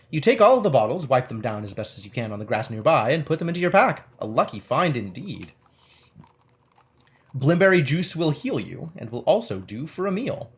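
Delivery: measured game-book narration; story narration. Acted. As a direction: read it out like an adventure storyteller. Reads game text aloud.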